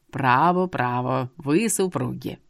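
put-on low, slow old man voice; old seer, knowing. A narrator's reading. Seer tells her about her home, low knowing old man.

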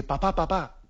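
a son in anguish calling his father, mild imploring; anguished child. Retold or imitated. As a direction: call out like a child in distress, lightly voiced. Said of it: "un hijo que está angustiado".

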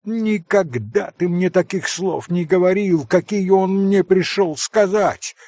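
a hint of a proud, teasing woman; Grushenka. A narrator's reading. Grushenka reproaching.

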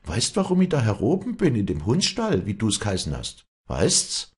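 high, loud, accusing questions; angry outburst. Acted. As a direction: hurl it at him. Walli confronts Josef angrily.

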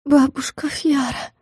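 soft, slow, weak murmur; weak whisper. A narrator's reading. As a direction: breathe the name, almost fainting. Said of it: "прошептала". (слабый шёпот)

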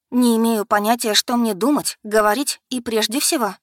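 в смятении; distraught. Acted. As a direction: torn between sister and man. Alisa torn between them.

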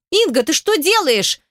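high-pitched indignant squeal; panicked squeal at moderate volume. A narrator's reading. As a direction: shriek it high without much volume. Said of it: "визжит он не своим голосом".

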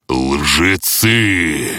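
thundering accusation from above; booming voice from sky. Acted. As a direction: boom it out like a god. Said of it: "прогремел голос".

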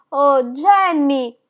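loud, slow, drawn-out call; frantic call. A narrator's reading. Molly halfway up the stairs calling Jenny, frantic. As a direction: call the maid, desperate. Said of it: "disse Molly a metà della scala".

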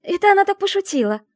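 loud, high, hurried blurt. A narrator's reading. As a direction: blurt it out to cover for her. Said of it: "выпалила Медина". (Медина в панике выпаливает оправдание)

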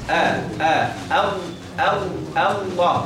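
short light "آه" repeated, then built into "الله"; sound broken down. Shown as a demonstration. Teacher drilling the opening hamza, short separate repeats. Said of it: "تقول إيه؟".

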